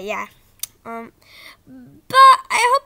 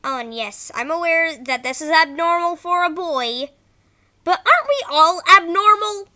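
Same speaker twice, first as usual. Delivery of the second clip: bad acting; 5 dB louder than usual. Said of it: "Sorry if the voice acting was bad".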